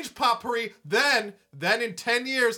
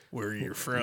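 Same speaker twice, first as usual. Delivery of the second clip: cop harassing voice; 11 semitones lower, 8 dB quieter than usual. Retold or imitated. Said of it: "like you're a cop harassing me".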